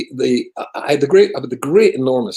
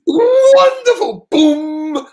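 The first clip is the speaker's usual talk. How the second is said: drawn-out mock delight, much higher and louder; sarcastic exclamation; 8 dB louder, much slower than usual. Rabbi retelling a tactless comment, in sarcastic mock delight. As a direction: hail the insult like a triumph.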